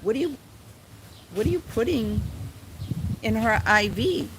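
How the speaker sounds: high, alarmed questioning of the nurses, imitating mom. Mother demanding to know what nurses put in IV, high and alarmed.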